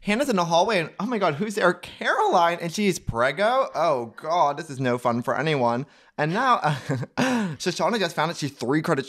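high, bright game-show recap energy; excited rush. Real, not acted. Cohost racing the clock recapping the episode, excited and high. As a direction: race the clock like a hype host.

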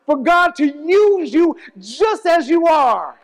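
high, driving sermon cadence with stretched endings; impassioned preaching. Real, not acted. Preacher telling congregation God can use them as they are, fervent preaching. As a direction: preach it with rising fervor, drawing out key phrases.

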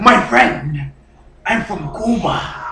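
lightly put-on Cuban accent. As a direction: play a Cuban immigrant, accent on. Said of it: "That's not how you talk in Cuba?".

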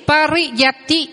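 slow Pariyati, each syllable separate; slow model word. Shown as a demonstration. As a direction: drill Pariyati slowly. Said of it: "Quý vị đọc vào phần từ vựng".

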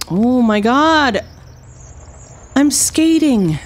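high, drawn-out squeals of delight; gleeful. Pretend. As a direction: stretch it out like a kid whizzing along. Gleeful skating in the game.

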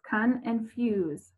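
slow, "con" and "fuse" split apart; syllable split. Shown as a demonstration. Teacher showing how confuse splits. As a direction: say "con and fuse" slowly in two pieces. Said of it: "it sounds".

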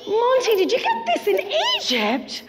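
gasp, then a high excited shout. Acted. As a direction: act astonished for the kids. Excited magician gasps at puppet.

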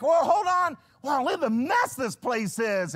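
mock panic. Host panics at pastor's visit.

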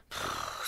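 long breathy sigh; heavy exhale before answering. A narrator's reading. Exasperated at being questioned.

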